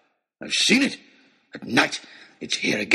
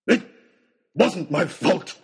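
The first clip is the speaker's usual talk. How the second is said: slow, louder defensive shout; 5 semitones higher, 5 dB louder, slower than usual. A narrator's reading. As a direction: shout it to deny the blame. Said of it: "shouted Oxshott".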